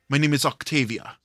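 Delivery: quick, polite character introduction; Octavia. Acted. Player voicing a Thursday game character, polite introduction. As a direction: introduce yourself briskly in character. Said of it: "in my Thursday".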